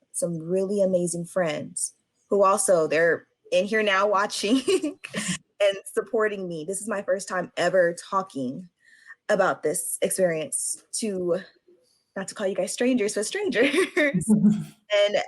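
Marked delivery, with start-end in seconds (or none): 2.9-6.6 laughing through tears. Real, not acted. Survivor thanking friends watching, laughing through tears. 13.1-15.2 slow, laughing on the words; sheepish laugh. Real, not acted. Survivor calling the audience strangers, with a sheepish laugh.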